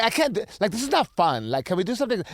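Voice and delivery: lightly voiced whiny client, mocking; a hint of a complaining client. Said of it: "I'm sorry for making that voice".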